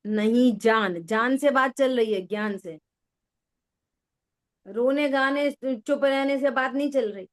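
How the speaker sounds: normal talking voice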